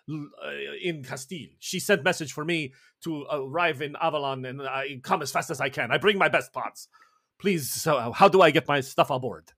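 a cheerful chef introducing himself with a Spanish lilt; Spanish chef Edmundo. Acted. Edmundo the chef greets the crew, light Spanish accent.

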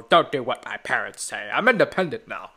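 put-on a touch of defiant teenager; sulky defiance, lightly voiced; mock rebellious teen. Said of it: "rebellious teenage angst".

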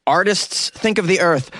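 put-on comic French accent; mock French accent. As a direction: plead like a cartoon French protester. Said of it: "He's yelling in French".

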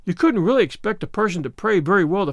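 a touch of earnest excuse; apologetic. Acted. Anne pleads lack of practice at praying, apologetic. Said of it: "said Anne apologetically".

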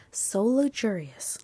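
slow "luxurious" with a hard "lug-zhur" start; odd pronunciation. Real, not acted. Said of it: "Why did I say that like that".

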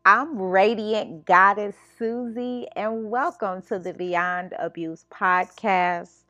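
slow, deliberate host intro over music; slow podcast welcome read. Acted. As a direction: welcome listeners in unhurried, measured, announcer-like.

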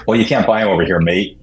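imitated matter-of-fact stock answer. Champion brushing off interviewers' shoe question, matter-of-fact. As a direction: end the conversation with it, matter-of-fact. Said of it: "it's just very matter of fact".

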